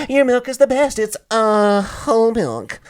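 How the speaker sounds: high, loud melodrama; overacted movie line. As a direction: beg like a soap opera hero. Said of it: "you're watching a movie, it's like".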